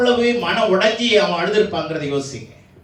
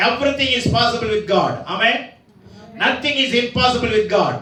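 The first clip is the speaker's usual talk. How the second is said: slow proclamation; 2 semitones higher, much slower than usual. Real, not acted. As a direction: stretch each word out slowly for the crowd. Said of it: "preached English proclamation". (மெதுவாக அழுத்தமான அறிவிப்பு)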